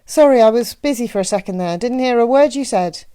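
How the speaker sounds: teasing Midwestern matron; Annie. A narrator's reading. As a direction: play along with a hint of Midwestern accent. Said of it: "her Midwestern accent left no doubt".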